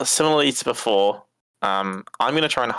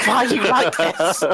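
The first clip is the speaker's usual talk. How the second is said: higher, laughing complaint; laughing protest; 10 semitones higher, 4 dB louder than usual. Real, not acted. Player to friends who keep teasing, laughing protest. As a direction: protest helplessly through laughter.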